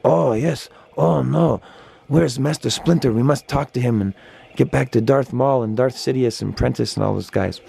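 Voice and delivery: a hint of a goofy cartoon turtle; Ninja Turtles voice. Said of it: "they talk like Ninja Turtles".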